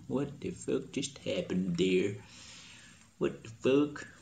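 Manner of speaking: normal talking voice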